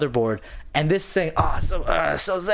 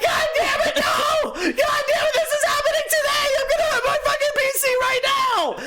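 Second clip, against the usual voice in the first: much higher, shouted, laughing rage; frantic shout. Retold or imitated. Builder screaming that his PC works today, manic. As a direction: yell it in manic frustration. Raging at wrong RAM.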